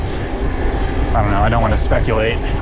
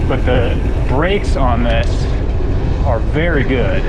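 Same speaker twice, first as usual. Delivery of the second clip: raised voice over wind, slow; shouting over wind; 4 dB louder, slower than usual. Real, not acted. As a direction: push the words out over the wind. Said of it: "In case you weren't able to hear me on the downhill section over the wind noise".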